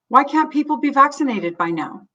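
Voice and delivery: complain, fed up with waiting; a touch of acted indignation; frustrated. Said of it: "your own sense of panic".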